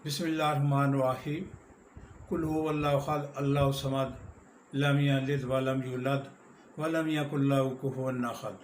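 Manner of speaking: quick, careless Arabic with the words run together; rushed everyday prayer recitation; hurried recitation. Shown as a demonstration. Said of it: "آ، بہت جلدی جلدی ہوتا ہے۔".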